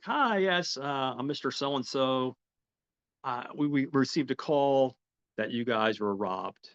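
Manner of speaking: police officer. Retold or imitated. Officer introduces himself at the robbed bank, lightly official. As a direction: imitate a polite officer on a call-out.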